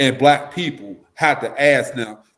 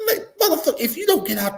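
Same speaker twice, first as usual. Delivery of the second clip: very high laughing yelp; exasperated outburst; 13 semitones higher, 3 dB louder than usual. Retold or imitated. The speaker snaps at the clueless visitor, laughing. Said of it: "laughing outburst at the visitor".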